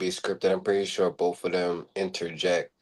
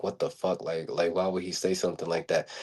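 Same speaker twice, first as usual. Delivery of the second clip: muttered under the breath, softer; mumbling; 3 semitones lower, 8 dB quieter than usual. Retold or imitated. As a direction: mutter it in disbelief. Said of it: "you can see Roman just mumbling".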